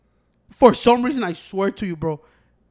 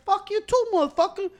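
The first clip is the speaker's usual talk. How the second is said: high-pitched retold road-rage yell; angry retort; 11 semitones higher, 3 dB louder than usual. Driver answers a man waving his hand, angry retort. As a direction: throw the insult right back.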